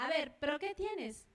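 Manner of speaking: lightly acted impatient mum; firm, insistent mother's demand; exasperated mother. Mother pressing her crying child to explain, impatient. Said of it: "y la mamá".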